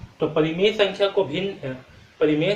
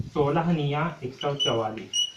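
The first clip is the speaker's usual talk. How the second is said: slower, each number spaced out in सोलह निया एक सौ चवालीस; slow repetition; slower than usual. Shown as a demonstration. Teacher repeating the times table for students, slowly. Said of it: "क्या होता है".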